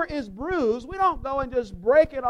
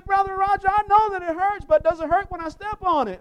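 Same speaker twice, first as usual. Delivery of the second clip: higher, louder fake concern; hammed-up sympathetic question to a hurting friend; mock caring question; 5 semitones higher, 5 dB louder, faster than usual. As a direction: pretend sympathy before stomping. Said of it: "And we say".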